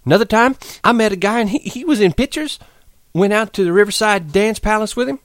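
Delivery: high, rushing dreamy account; eager outpouring. Acted. Curly's wife pours out her past to Lenny, high and eager. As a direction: pour out her dream before he leaves. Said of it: "went on with her story quickly".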